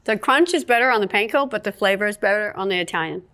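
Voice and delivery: talking through a mouthful of food; mouth full. Real, not acted. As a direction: chew and talk with mouth full. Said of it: "talking with my mouth full".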